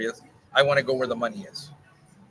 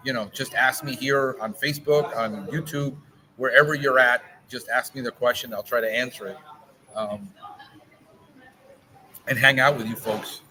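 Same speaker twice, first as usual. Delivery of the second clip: talking around a cigar in mouth; words shaped by a cigar between the lips. Real, not acted. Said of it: "I've been on forty-three minutes talking with a cigar in my mouth".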